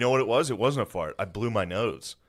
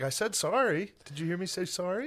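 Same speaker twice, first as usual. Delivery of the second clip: mock sarcastic apology; 9 semitones higher, 4 dB quieter than usual. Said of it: "I got out and I was like".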